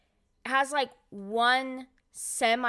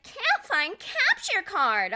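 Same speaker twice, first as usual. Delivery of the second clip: slow, flat machine readout, higher; mock the error message; robotic computer voice; 11 semitones higher, 7 dB louder, much slower than usual. Mocking the computer's error message, robotic. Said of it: "it was like".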